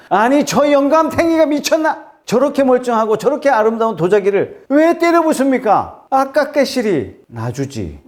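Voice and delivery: high-pitched, hammed-up indignant onlooker; angry outcry. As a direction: protest in outrage, easing into regret at the end. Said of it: "막 화를 내면서 소리칩니다". (화내며 소리치는 구경꾼 흉내)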